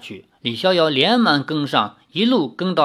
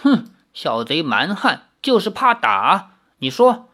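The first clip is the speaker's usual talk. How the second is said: scornful magistrate. Acted. Magistrate sneers at the prisoner for fearing the rod. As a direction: scoff at the coward prisoner.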